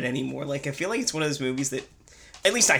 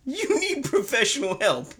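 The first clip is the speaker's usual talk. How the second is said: shrill screeching bird woman; 11 semitones higher, slower than usual. Acted. Quote war movie line.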